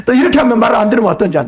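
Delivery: quick, laughing threat; fast laughing mock-threat; laughing scold. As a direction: laugh then rush the rebuke.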